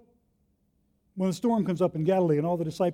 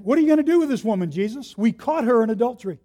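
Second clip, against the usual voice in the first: accusing leaders; 3 semitones higher, 4 dB louder than usual. Acted. Accusing leaders voiced in sermon.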